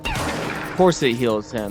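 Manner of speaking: slow, dry, defeated; resigned sarcasm. Real, not acted. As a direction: shrug it off with bitter sarcasm. Resigned answer to own outburst.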